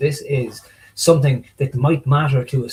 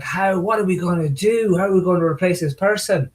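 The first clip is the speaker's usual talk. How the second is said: raised-pitch worried team voice; mock panic; 5 semitones higher than usual. Team reacting to a colleague leaving, mock panic. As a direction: fret aloud with mock alarm. Acting out team's panic at departure.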